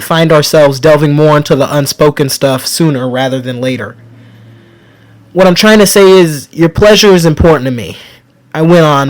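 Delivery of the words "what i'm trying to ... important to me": emotional plea to a lover, voice thickening; thick with emotion. Acted. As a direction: voice swelling with feeling, higher and louder. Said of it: "my voice growing thick with emotion".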